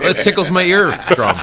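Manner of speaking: laughing. Real, not acted. Laughing at the deep voice.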